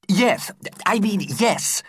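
a touch of sadness in a high teacher voice; unhappy reply. A narrator's reading. Teacher sadly confirming to his pupils, a mild unhappy reply. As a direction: reluctantly admit it. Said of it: "replied the unhappy teacher".

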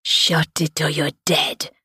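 slow, understated threat; a hint of a menacing deep voice; deep-voiced warning. A narrator's reading. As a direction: warn them slowly, in a lightly voiced thug's tone. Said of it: "a deep voice warned".

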